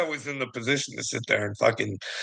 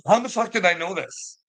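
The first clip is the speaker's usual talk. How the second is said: exasperated outburst; 8 semitones higher than usual. Retold or imitated. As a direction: pitch jumps much higher on "how in the fuck". Repeats line, first take higher.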